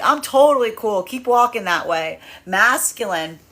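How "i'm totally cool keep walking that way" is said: lightly acted easygoing reassurance; reassuring higher self.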